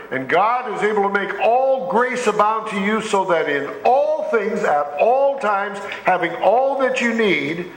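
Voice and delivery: emphatic pulpit reading, stretching each phrase; scripture reading. Acted. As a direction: proclaim the promise slowly, phrase by phrase. Reads scripture aloud to congregation.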